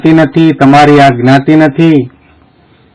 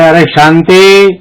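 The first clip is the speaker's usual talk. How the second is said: drawn-out call, only lightly raised; mild mock call; 3 semitones higher, slower than usual. Swami calls the boy a third time, mild mock shout. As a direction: imitate calling out, stretching the name. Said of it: "જોરથી બૂમ મારે".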